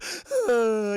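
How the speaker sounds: loud sobbing gasp; acted kid crying breath; mock sobbing. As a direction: heave a hammed-up sob. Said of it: "He's all sobbing".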